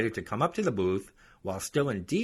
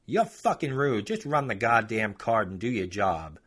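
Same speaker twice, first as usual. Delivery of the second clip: irritated customer. Retold or imitated. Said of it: "customer's retort".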